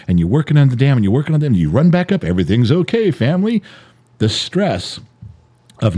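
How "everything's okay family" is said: reassuring call, lifting on "family"; putting on reassurance. Acted. Husband running back up to his family, reassuring. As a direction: cover up with an upbeat call.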